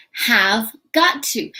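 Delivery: "Have got to" said slowly and clearly; careful, slow "Have got to"; slow model of have got to. Shown as a demonstration. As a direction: spell it out slowly for learners. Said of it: "another strong modal".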